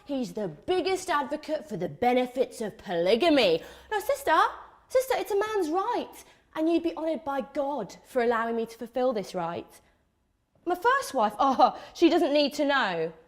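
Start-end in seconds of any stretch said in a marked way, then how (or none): 3.9-13.1 mock preachy player. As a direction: slip in the sly bit lightly. Mocking polygamy advocate.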